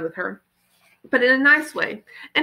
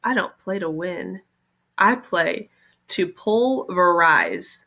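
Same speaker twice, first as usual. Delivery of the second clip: gravely growl; 2 semitones lower, slower than usual. Acted. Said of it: "dropped his voice to a gravely growl".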